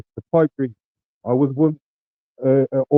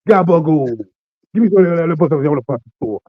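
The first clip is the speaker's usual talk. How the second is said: mock New York accent, a bit louder; 4 dB louder than usual. Streamer joking for chat in mock New York accent. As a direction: ham up a New York wiseguy accent for a laugh. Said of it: "I'm from New York".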